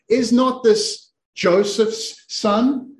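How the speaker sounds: questioning neighbour. Acted. Bearded man turning to those around him, questioning. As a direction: put it slowly to the whole room. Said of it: "he turns around to all of you sitting around there and he says".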